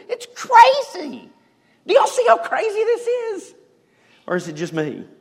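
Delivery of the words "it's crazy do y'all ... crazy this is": amazed exclamation. Real, not acted. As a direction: marvel at it out loud to the congregation. Preacher marvels at the story.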